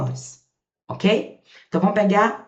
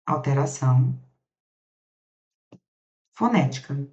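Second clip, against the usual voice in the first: lower, slow dictation of "Com alteração fonética"; 4 semitones lower, slower than usual. Shown as a demonstration. Teacher dictating slowly so students can copy. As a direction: dictate it word by word. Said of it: "Bota aí, ó".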